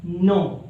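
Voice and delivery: नो with a silent k, plain no; teacher saying the word नो as no; know said right. Shown as a demonstration. Teacher shows students नो with silent k. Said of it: "एक लफ्ज में मिसाल के तौर पर लूँ".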